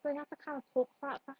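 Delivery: quick, lightly put-on Liverpool accent; demonstrating a Liverpool lilt. Shown as a demonstration. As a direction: talk with a touch of Scouse. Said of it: "I had to have a Liverpool accent".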